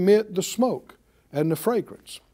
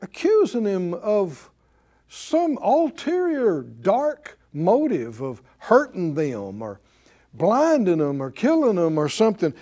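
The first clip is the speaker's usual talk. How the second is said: ordinary talk, nothing marked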